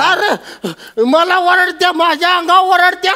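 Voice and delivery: high-pitched whining complaint; hammed-up grievance; aggrieved tattling. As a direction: tell on her like a wronged child. Old man complains to son.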